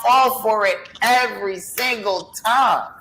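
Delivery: slow, pointed scold; y'all fall for it, slow and pointed. Real, not acted. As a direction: drag it out to shame them. Scolding the audience.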